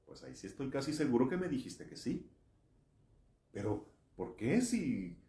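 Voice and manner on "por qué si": ordinary talk, nothing marked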